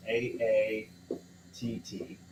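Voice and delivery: slow recited mnemonic. Shown as a demonstration. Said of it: "the saying is".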